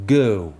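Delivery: "go" stretched as an English diphthong from e to o; "go" with a slow English vowel glide. Shown as a demonstration. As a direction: sweep the vowel of "go" from e to o. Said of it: "Il y a une voyelle de départ, le E".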